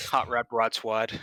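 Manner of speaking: put-on slow Boston accent.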